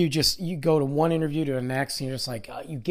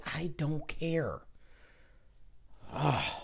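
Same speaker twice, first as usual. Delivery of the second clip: slow, weary whisper; 11 dB quieter, much slower than usual. Real, not acted. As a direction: let it out in a tired breath. Tired host gives up caring.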